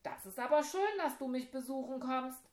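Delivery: high, loud glad call; delighted call from the tower; calling back. Acted. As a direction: call down happily to the visitor. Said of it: "rief zehn zurück".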